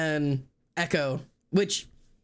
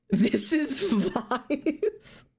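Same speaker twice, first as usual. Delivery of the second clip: giggling; 9 semitones higher, much slower than usual. Real, not acted. Giggling at funny outfit.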